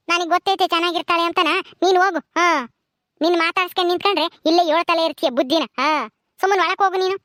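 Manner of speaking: mildly cross mother-in-law; understated, impatient telling-off; irritable scolding. Acted. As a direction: send her off with a touch of irritation. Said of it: "ನೀನ್ ಮಾತಾಡ್ಸ್ತಾರ ಮೇಲೆಲ್ಲ ರೇಗ್ತಾ ಇದೆಯಲ್ಲ".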